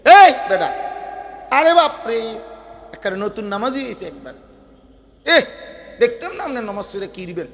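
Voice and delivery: mock jeering at a newly pious man; টিটকারি. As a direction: act out a scoffer taunting. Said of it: "তেরে তে এমন একটা টিটকারি দিছে". (টিটকারির নকল সুরে)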